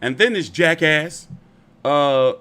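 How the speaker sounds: high, loud, disbelieving; can't believe what he's seeing; incredulous outrage. Real, not acted. Outraged retelling of face-off.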